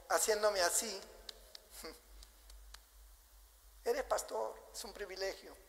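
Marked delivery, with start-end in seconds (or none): 1.8-5.6 a soft, breathy chuckling God, slowed; God laughing. Retold or imitated. Pastor imagines God chuckling at him, soft and amused. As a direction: let God laugh gently at his pastor. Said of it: "me imagino a Dios riéndose".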